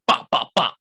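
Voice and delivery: punchy "bop" knocks in imitation; imitated door banging. Man retelling how he banged on the door, imitated knocks. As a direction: mimic banging on a door like a cop. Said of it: "Like I'm a cop".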